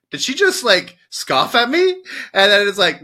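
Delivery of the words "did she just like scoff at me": retold affront. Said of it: "And then she's like".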